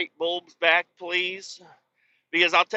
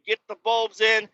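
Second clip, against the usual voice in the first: frustrated yell; 9 semitones higher, 4 dB louder than usual. Retold or imitated. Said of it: "I'm just like".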